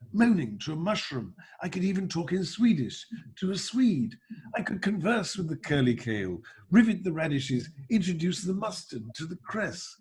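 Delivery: royal voice, half-sung patter; sing-speak it like Prince Charles; Prince Charles as Doctor Dolittle. Pretend. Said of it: "why don't I do Prince Charles".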